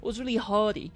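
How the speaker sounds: put-on lightly copied Canadian accent. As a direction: echo a Canadian's "eh". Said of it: "they kinda have different sounds".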